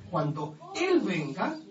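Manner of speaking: "Él" slowed and lifted, the whole phrase "Cuando Él venga" drawn out; stress on Él. Shown as a demonstration. Preacher stressing "Él" to show the Spirit is a person. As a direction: lean on "Él" to mark a person. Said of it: "tiene acento en la E".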